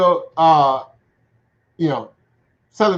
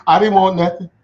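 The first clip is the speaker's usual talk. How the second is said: put-on sheepish kid; 2 semitones higher than usual. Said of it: "you be like".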